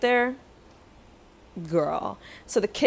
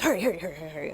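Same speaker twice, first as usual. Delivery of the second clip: imitated rushing; 2 semitones lower, much faster than usual. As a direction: mimic an impatient fast talker. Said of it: "you're talking really fast".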